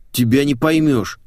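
a mild grumble at her orders; droning complaint. Acted. Lad complaining to the girl, droning. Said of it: "загудел парень".

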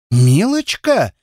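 медленно, с шипением, возмущённо; прошипеть обиженное слово; злое шипение. A narrator's reading. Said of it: "зашипела Тая". (возмущённая девушка шипит переспрашивая)

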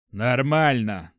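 slow, brushing it off; dismissive. Acted. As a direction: wave the objection away. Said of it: "отмахнулся от него шеф".

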